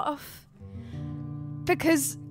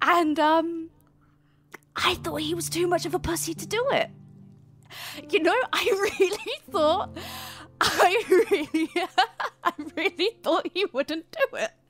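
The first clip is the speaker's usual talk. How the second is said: speaking through laughter; 3 semitones higher than usual. Answering another character's angry question in character, laughing while talking. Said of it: "Why the fuck are you laughing?".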